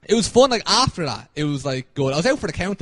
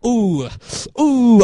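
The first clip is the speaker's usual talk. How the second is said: nervous ooh; 6 semitones higher, 6 dB louder than usual. Retold or imitated. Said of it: "I'm like".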